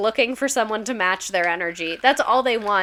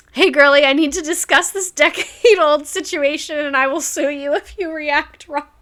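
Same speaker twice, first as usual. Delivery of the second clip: mock sweet girly voice; 5 semitones higher, 5 dB louder than usual. Voicing a commenter's message mockingly.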